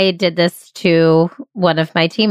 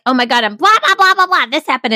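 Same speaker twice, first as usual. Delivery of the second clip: excited gushing; 8 semitones higher than usual. Retold or imitated. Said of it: "And I'm literally like".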